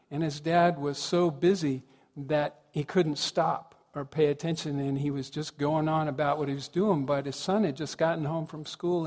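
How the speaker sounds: usual speaking voice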